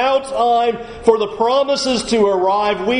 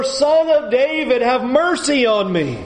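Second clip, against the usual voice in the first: crying out louder; 4 semitones higher than usual. Retold or imitated. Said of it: "he cried out all the more".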